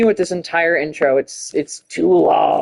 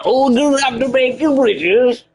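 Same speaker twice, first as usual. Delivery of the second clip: hammed-up British accent, pitched up; mock British accent; 8 semitones higher than usual. Gamer swearing at the game in a mock British accent. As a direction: play a cartoon Brit swearing at the game. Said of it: "It's me becoming British".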